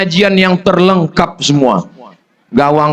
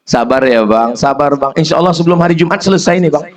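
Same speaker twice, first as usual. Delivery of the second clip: tender reassurance; faster than usual. Retold or imitated. Wife soothing sick husband.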